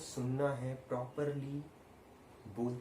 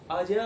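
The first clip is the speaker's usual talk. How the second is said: अजय with the vowel of जय stretched long; stress on the vowel; 5 semitones higher, 10 dB louder than usual. Shown as a demonstration. Teacher demonstrating a name, अजय with long stretched vowel. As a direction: call out अजय, holding its vowel. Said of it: "देखिए, अ पर stress दिया".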